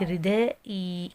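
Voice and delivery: "الرداء اي" ending in a long, held ee; lengthened final vowel. Shown as a demonstration. Teacher explaining ishbaa, "الرداء اي" with a drawn-out final ee. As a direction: draw the kasra of "الرداء اي" out into a ya. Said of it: "اشباع بالكسر، فولد لي ياء ساكنة".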